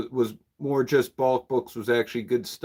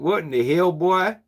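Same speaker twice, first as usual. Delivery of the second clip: higher-pitched put-on redneck twang; mock redneck exclamation; redneck accent; 5 semitones higher than usual. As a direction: play up a redneck accent, rising at the end. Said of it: "that's my redneck accent".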